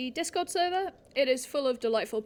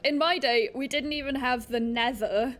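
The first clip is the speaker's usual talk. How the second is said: boomer voice. Pretend. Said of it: "boomer voice".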